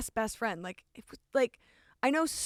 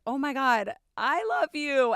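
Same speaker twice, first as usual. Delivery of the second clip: louder, higher burst of joy; excited realization; 4 semitones higher, 5 dB louder than usual. Retold or imitated. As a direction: blurt it out, overwhelmed. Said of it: "and I was like".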